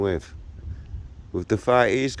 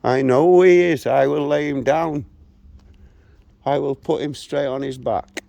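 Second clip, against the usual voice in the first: louder, hard-edged promise to knock him down; angry vow; 3 semitones higher, 4 dB louder than usual. Real, not acted. Older man vows to a local who challenged him, angry and loud. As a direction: spit out the threat like a man ready to box.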